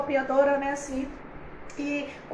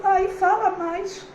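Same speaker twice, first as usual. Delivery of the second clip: higher, slow, longing ask for more; eager plea; 4 semitones higher, 4 dB louder, slower than usual. Retold or imitated. To the preacher, Leide begging her to speak more, a slow eager plea. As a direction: beg her to keep talking, drawn out. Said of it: "Leide tava dizendo".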